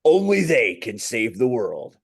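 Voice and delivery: epic movie trailer narrator; trailer voiceover. Pretend. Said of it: "can I do the Hollywood trailer voiceover".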